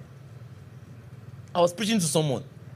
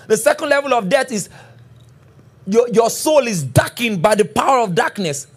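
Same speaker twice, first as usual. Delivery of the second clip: emphatic sermon delivery, pitch lifted; forceful preaching; 3 semitones higher than usual. Real, not acted. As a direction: preach it with mounting urgency. Preaches on death with rising force.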